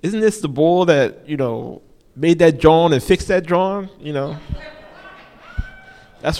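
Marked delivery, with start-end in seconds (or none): 0.0-3.9 put-on higher, louder playful kid voice; lightly voiced kids joking; kids' version. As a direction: ham up the kids' phrasing. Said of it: "like my kids would say".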